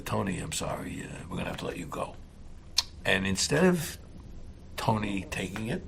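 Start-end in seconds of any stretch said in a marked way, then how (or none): 0.0-2.2 soft whisper, low and hushed; whispered firing. Retold or imitated. Ed quietly firing Tony, hushed whisper. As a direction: break the bad news in a hush.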